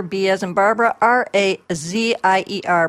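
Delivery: each letter said separately; spelling it out. Shown as a demonstration. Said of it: "let me spell that out".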